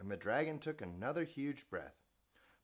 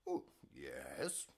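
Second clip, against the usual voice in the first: smug dragon; 11 semitones lower, 7 dB quieter than usual. Acted. Dragon smugly agreeing.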